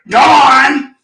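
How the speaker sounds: imitated gruff urging from a mentor; mock-impatient prod. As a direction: push a dawdler along, mentor-style. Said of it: "He's standing there like this".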